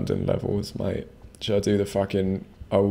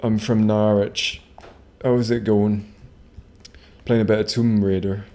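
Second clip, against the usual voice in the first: lightly mock a Norwich local, unhurried; Norwich accent. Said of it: "they speak a bit like this".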